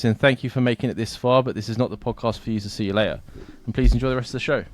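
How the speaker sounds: brisk, formal read; lightly formal disclaimer read. Acted. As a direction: read it like the legal bit. Reads podcast disclaimer.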